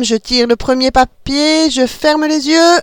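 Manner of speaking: high, bright-eyed mother explaining a game; playful mother. A narrator's reading. Mother explaining the spaceship game to her kids, playful. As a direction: lead the children into make-believe. Mother voiced announcing draw.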